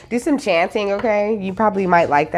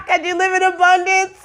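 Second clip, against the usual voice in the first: excited laughing call; 12 semitones higher than usual. Real, not acted. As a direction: shout it out in joy. Bursts out after lyric.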